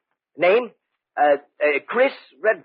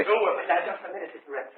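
1 alarmed protest; 6 semitones higher, 6 dB quieter than usual. Acted. Quarrel over the silver flask.

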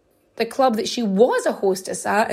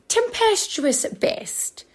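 dramatic whisper; 8 semitones higher than usual. Acted. Dramatic aside on their marriage.

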